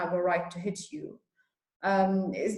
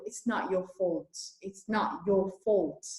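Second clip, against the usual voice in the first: gentle reassurance; 5 dB quieter, slower than usual. Real, not acted. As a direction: tell her softly and slowly it's not her fault. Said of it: "waxaan rabaa inaan u sheego".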